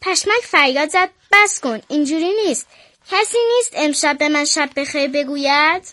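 put-on a girl reading a bedtime picture book aloud; children's story reading. Girl reading a bedtime story to listeners, storybook voice. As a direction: read it like a storybook for little ones.

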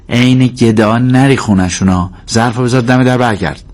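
lightly voiced cheeky girl; bossy little sister. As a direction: instruct the older brother like a small boss. Little sister orders Karim about.

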